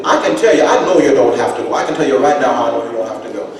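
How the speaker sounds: put-on loud, high, laughing old father; laughing grandfather. Grandfather laughing as he overrules his son. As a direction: chuckle while laying down the law. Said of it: "father voiced".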